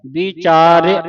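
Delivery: ਵਿਚਾਰਿਆ said as vichaariaa, with a light i; careful pronunciation. Shown as a demonstration. Teacher shows the class how to say ਵਿਚਾਰਿਆ. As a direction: keep the i in ਵਿਚਾਰਿਆ short and light. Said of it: "ਇੰਨਾ ਕੁ ਬੋਲਣਾ ਹੈ".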